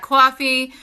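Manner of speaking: slight New York accent on "coffee". Real, not acted. Weighing up a coffee purchase, New York accent slipping out. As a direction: let "coffee" slip into New York vowels. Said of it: "my New York accent".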